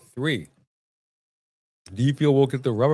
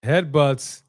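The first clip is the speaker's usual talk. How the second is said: slow broadcast commentary; play-by-play; slower than usual. Acted. Watching wrestling, calling the match like a commentator. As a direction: call the action like a ring announcer.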